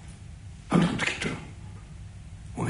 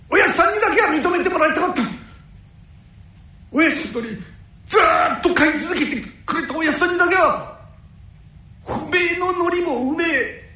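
tearful outburst; 10 semitones higher, 5 dB louder than usual. Acted. Tetsu's tearful outburst of feeling.

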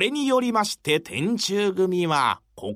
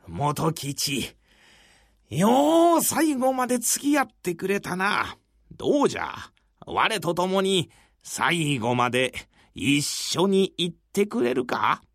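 put-on a lightly lowered old master; old samurai voice; 2 semitones lower than usual. Tetsuseki speaks to Motokichi.

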